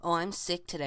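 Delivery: high, put-on sickly voice; mock sick-day voice; fake sick voice. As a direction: play the faker calling in sick. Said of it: "talking under fake cough".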